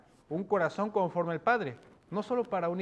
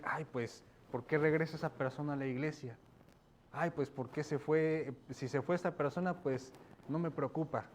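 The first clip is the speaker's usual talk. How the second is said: softer, scornful shrug; dismissive church member; 5 dB quieter than usual. Acted. A judgmental believer scorns someone returning to church, dismissive. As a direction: sneer at the returning sinner. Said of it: "Para no decir".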